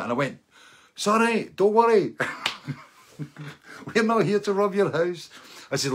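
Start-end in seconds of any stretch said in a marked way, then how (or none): 0.9-5.3 high, loud rushed sorry; loud flustered apology. Retold or imitated. Masked visitor calming a scared homeowner, high and loud. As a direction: blurt it out high and eager.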